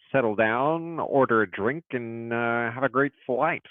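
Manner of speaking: lightly voiced pilot announcement; mock captain speaking to passengers over the intercom; a hint of an American airline pilot. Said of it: "love your American accent".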